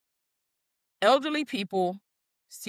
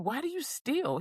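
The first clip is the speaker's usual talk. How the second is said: quoting Jerry; 7 semitones higher, 5 dB quieter than usual. Retold or imitated. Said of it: "Jerry was like".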